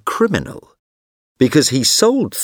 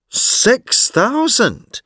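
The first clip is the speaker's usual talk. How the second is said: surprised; 13 semitones higher, much slower than usual. A narrator's reading. Ferguson feigning surprise at offer.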